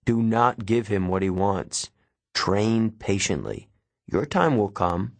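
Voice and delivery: lightly voiced mentor, measured warning; grave mentor. Mentor warning his pupil to be careful, lightly voiced gravity. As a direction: caution them deliberately, weighing each phrase. Mentor figure cautions the boy.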